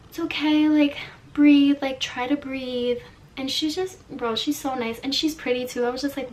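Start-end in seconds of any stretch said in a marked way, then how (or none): 0.1-3.0 soothing. Retold or imitated. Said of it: "almost, like, soothing".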